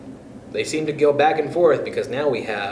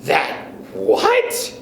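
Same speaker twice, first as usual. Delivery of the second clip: panicked scream; 2 semitones higher than usual. Acted. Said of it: "screamed Missus Twit".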